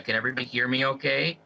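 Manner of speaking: fuzzy audio cutting in and out; crackly cordless phone. Real, not acted. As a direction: voice breaking up over a bad line. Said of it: "you're really fuzzy".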